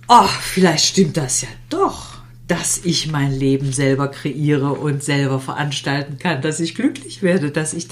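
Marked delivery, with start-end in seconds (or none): 0.1-2.2 whispered realization. Acted. Inner realization voiced.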